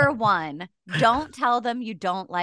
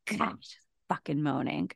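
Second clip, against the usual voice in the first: annoyed grumble; 4 semitones lower, 10 dB quieter than usual. Retold or imitated. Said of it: "and he's like".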